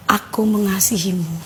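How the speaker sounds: soft, low and tender; gentle voice. Retold or imitated. Unseen voice comforting someone in despair, gentle and soft. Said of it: "Suaranya lembut banget gitu".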